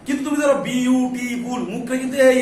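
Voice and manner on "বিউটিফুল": বিউটিফুল broken slowly into separate syllables. Shown as a demonstration. Teacher showing students how to count syllables, বিউটিফুল syllable by syllable. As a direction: say বিউটিফুল with a fresh mouth movement for each syllable. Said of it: "অনেকবার করা লাগতেছে".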